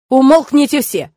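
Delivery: loud, slow, domineering command; booming authoritative order. A narrator's reading. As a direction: silence the whole group. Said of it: "приказал он громким властным голосом".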